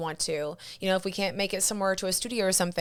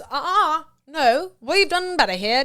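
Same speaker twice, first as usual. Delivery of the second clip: prim British voice, higher and louder; British Jiminy Cricket; 8 semitones higher, 9 dB louder, slower than usual. Pretend. Her inner conscience corrects her worrying thoughts in a British accent. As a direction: scold kindly in a British accent. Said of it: "made him a, with a British accent".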